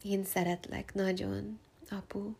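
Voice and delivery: softly, lovingly; tender. Real, not acted. Thanking her father softly, tenderly. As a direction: say it gently to your father. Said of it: "sending my dad so much love".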